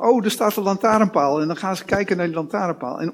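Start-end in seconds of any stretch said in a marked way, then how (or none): 0.0-1.4 imitating a child. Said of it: "hebben ze de neiging om te zeggen".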